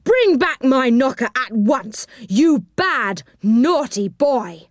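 high-pitched indignant scolding; angry cry. A narrator's reading. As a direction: scold a thief, leaning on the last words. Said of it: "he cried angrily".

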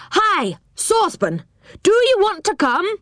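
high, far-carrying shout up the tree; shouted call. A narrator's reading. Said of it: "shouted Moonface".

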